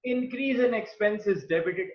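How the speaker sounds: slow, measured quoting of the rule; slow quoted rule. Shown as a demonstration. Teacher quoting the modern approach rule, slow and measured. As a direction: read the rule out slowly. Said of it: "modern approach क्या कहती है".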